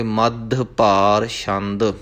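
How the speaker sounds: ਮੱਧ with blended "d-dh" closing one syllable. Shown as a demonstration. Teacher modelling for learners, ਮੱਧ closed on a blended d-dh. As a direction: say ਮੱਧ ਭਾਰ carefully, d and dh merged. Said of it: "ਇੱਥੇ ਉਚਾਰਨ ਕਰਾਂਗੇ".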